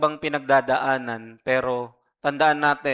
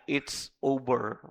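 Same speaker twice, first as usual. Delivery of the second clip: soft, slow, low "It's over."; softly taunting "It's over."; whispered taunt; 3 semitones lower, 6 dB quieter, slower than usual. Pretend. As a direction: breathe "It's over." like a tempter. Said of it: "bumubulong siya".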